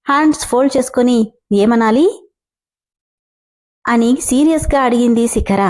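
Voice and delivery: lively storyteller reading a serial aloud; story narration. A narrator's reading. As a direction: tell the tale with a voice for each character. (కథ చదువుతున్న స్వరం)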